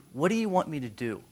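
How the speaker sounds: softly voiced, gentle question; kind offer. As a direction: ask as if ready to serve. Jesus kindly addressing blind man.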